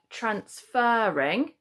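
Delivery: "transferring" slowed, with a long "fer" in the middle; stress on the FER. Shown as a demonstration. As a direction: stretch the second syllable of "transferring". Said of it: "fur does sound like fur".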